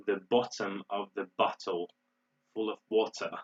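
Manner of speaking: rough British imitation with crisp Ts; attempted British accent. Shown as a demonstration. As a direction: try a British accent, lightly, sounding every T. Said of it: "in British English, they would say".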